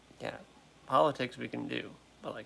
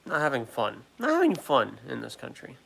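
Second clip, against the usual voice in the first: louder, fed-up complaint; exasperated; 5 dB louder than usual. Real, not acted. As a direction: vent your frustration.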